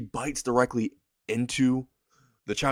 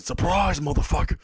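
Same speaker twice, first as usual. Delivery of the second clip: spring it on her like a prank; surprise yell; 6 semitones higher than usual. Retold or imitated. Chocolate bar Venom ambushes Konako, high gleeful yell. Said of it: "the chocolate bar just said".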